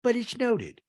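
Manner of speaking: high, slow mock-aggrieved voice; Meredith. Meredith drops it pointedly, imitated high and slow. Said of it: "And Meredith goes".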